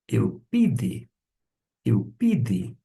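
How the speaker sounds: "eupide" said carefully, stressed on the pi; "eupide" modeled clearly, falling at the end; pronunciation demo. Shown as a demonstration. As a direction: say "eupide" as el-PI-de, set apart. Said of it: "em termos de pronúncia".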